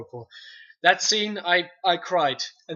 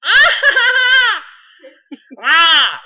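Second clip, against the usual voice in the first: high, loud alien screech and cackle; Stitch; 13 semitones higher, 14 dB louder, much slower than usual. Shown as a demonstration. Doing Stitch sounds to show off impressions. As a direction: squawk it out like the little alien Stitch. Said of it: "from Lilo and Stitch".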